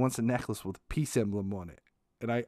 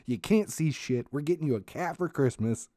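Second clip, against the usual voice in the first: higher, louder mock mom, bossy; 4 semitones higher, 3 dB louder than usual. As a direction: lay down the law as mom, pitched up. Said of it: "she's like".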